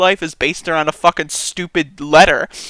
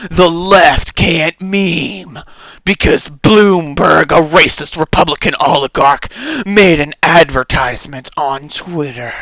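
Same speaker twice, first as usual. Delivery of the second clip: mock Tim Pool; 2 semitones lower than usual. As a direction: drag it out like a smug pundit. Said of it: "It was Tim Pool".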